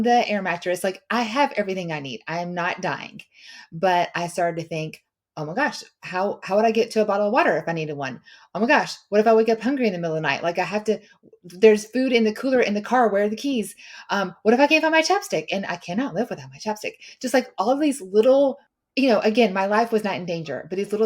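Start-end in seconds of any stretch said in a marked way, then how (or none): 5.4-15.5 rushed, anxious run of what-ifs, louder as it builds; panicky racing thoughts. Retold or imitated. Lying awake in the tent, retelling her midnight panic, rushed and anxious. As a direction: spiral into worry, tumbling faster.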